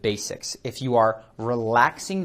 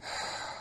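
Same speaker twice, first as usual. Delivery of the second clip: one slow audible breath out; deep breath demo; 15 dB quieter than usual. Shown as a demonstration. Coach showing viewers how to take a breath, audible sigh. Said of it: "and take a breath".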